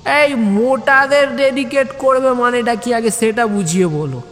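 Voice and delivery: high, testy demand; grimacing demand. Acted. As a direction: demand an explanation, irritated. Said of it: "মুখ খিঁচিয়ে বলে উঠল". (মুখ খিঁচিয়ে দাবি)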